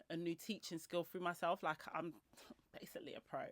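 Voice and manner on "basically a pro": laughing. Real, not acted. Self-mocking brag, laugh heard.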